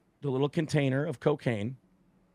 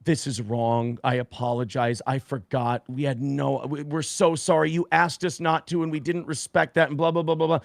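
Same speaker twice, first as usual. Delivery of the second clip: mock tearful apology. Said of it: "tears in her eyes".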